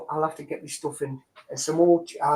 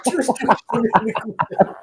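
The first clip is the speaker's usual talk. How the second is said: laughing through the words, slow; 4 semitones higher than usual. Real, not acted. Joking to friends about curry, laughing. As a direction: giggle the line out slowly.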